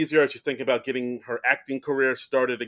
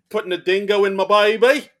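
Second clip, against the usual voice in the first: laughing through a hammed-up Aussie accent, higher; mock Australian accent; 7 semitones higher, 5 dB louder than usual. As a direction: botch the dingo line in a fake Aussie accent. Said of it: "all our Australian knowledge".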